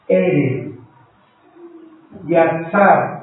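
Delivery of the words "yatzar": Yatzar with the accent on its last A; Yatzar, final A accented; stress on last A. Shown as a demonstration. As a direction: say Yatzar, leaning on the final syllable. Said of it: "con acento en la última A".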